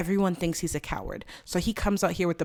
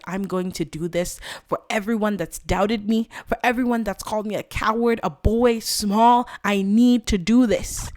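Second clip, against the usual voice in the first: determined vow building to loud and slow; building defiance; 3 semitones higher, 6 dB louder than usual. Acted. Roman vowing to prove his doubters wrong, building loud and forceful. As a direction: build to a forceful, punched declaration.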